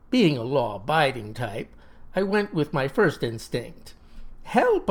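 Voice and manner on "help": shouting for help. Acted. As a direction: yell it out in alarm. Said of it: "I cried".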